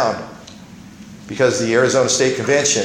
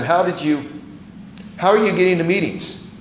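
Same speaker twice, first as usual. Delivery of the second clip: raised, worried asking; concerned question; 8 semitones higher than usual. Retold or imitated. Sponsor asking the young man how he gets to meetings, concerned. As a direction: lift the pitch up, caring about him.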